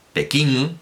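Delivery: "Pekín" with a nasal final ng, like pekiŋ. Shown as a demonstration. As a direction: say "Pekín" ending in a back nasal ng sound. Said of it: "con esa N gangosa".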